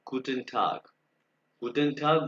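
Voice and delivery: गुटेन टाग said the German way, hard t; German greeting. Shown as a demonstration. Teacher models the greeting for beginners: गुटेन टाग, German sound. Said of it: "यो है, वो है".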